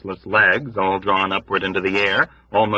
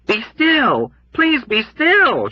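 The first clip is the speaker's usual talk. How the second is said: high, pleading sobbed urging; urging through sobs; slower than usual. Acted. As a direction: beg them through tears. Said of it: "she urged uselessly through her massive sobs".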